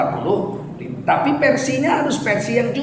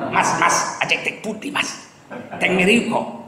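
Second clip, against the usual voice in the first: Javanese words in a blunt Batak accent; lightly done Batak accent on Javanese; 2 semitones lower, 4 dB quieter than usual. Shown as a demonstration. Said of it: "kalau bahasa Jawa pakai logat Batak".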